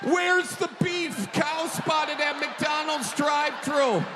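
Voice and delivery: slow, high, shouted line; shouted catchphrase. Acted. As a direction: belt the catchphrase out slowly. Shouted joke headline.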